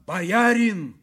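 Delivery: high, forceful call; shouting. A narrator's reading. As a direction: shout through the door at him. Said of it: "кричал Вяземский".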